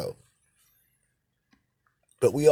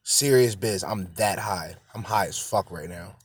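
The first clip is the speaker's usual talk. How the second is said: stoner; 4 semitones lower than usual. Real, not acted. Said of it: "I'm smoking this fucking blunt".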